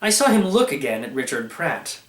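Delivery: usual speaking voice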